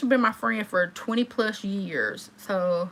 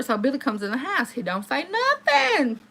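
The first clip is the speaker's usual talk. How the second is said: ordinary talk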